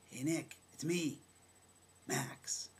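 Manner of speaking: retold friendly hail, pitch lifting; mildly insistent greeting, imitating an acquaintance; friendly reintroduction. Old acquaintance greets the teller by name, friendly reintroduction. Acted greeting, trying to be recognised.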